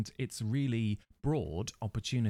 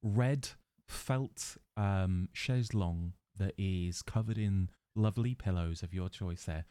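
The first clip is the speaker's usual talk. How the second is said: hypnotist voice. Pretend. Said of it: "put my hypnotism voice on".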